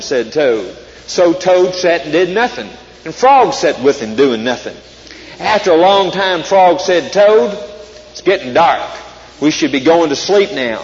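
lively storybook read-aloud; reading to children. Acted. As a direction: read it like a bedtime story for kids. Reads Frog and Toad aloud.

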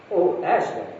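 a touch of despair, lightly acted; understated despairing plea. A narrator's reading. Edmund and Lucy pleading with Aslan, mild despair. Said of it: "both together in despairing voices".

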